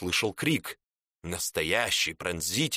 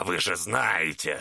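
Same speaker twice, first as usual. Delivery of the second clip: знаете drawn out low and slow in a growl; 5 semitones lower than usual. Acted. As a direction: lean in slowly, low and menacing on знаете. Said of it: "прорычал Чернолицый".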